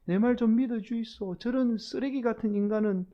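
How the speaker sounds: exasperated Gyeongsang dialect denial; plead, then disown him in thick Gyeongsang dialect; cursing in Gyeongsang dialect. Acted. Peter cursing Jesus to be believed, exasperated Gyeongsang dialect. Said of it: "막 그렇게 막 예수님께 저주를 퍼부은 거예요".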